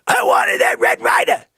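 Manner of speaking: high, loud wail; disappointed wail. Retold or imitated. Kid wailing he wanted the Red Ryder. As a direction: wail over the lost present.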